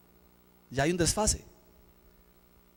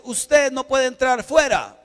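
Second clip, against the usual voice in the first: retold order; 4 semitones higher, 4 dB louder, slower than usual. Ride operator turning him away.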